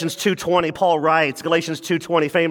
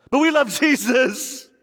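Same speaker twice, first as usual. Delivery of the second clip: mock pious gush; 7 semitones higher than usual. Mocking naive churchgoer claim.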